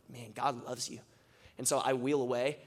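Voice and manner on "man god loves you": quieter, sincere and meant; softer sincere blessing, truly felt; heartfelt sincere. Retold or imitated. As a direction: let it land softly from the heart. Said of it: "for some reason, I felt it, like, more than I ever have".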